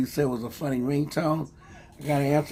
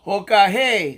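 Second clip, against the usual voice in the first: loud, high Bahala na; energetic call; 4 semitones higher, 5 dB louder than usual. Shown as a demonstration. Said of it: "Let me do it and you follow me".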